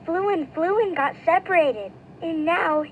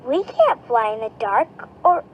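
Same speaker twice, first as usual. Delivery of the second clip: frightened; 2 semitones higher than usual. Acted. Young bat frightened.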